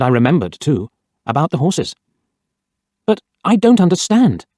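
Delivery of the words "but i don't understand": raised, urgent protest; a touch of alarm in the disbelief; cried out. A narrator's reading. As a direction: cry out in disbelief. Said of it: "I cried".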